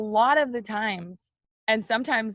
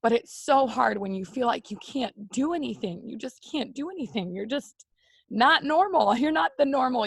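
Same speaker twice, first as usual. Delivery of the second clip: crying while talking; 4 semitones higher than usual. Real, not acted. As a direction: voice breaking into tears, rising at the end. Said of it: "I did not mean to cry on you guys".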